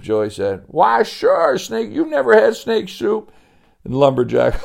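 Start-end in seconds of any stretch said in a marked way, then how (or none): 0.7-3.3 much higher, louder folksy exclamation; can't believe the boy never tried it; mock-amazed Sebastian.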